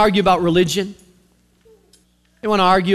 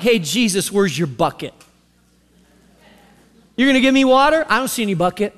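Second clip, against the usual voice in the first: mildly mocking, doubtful question; attitude; faster than usual. Samaritan woman doubting Jesus without a bucket, with attitude. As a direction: challenge him with a bit of sass. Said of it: "She's got an attitude".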